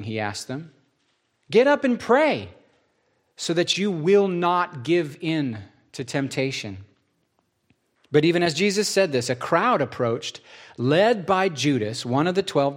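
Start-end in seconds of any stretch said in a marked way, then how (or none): 1.5-6.8 urgent command. Acted. Jesus urges disciples to pray.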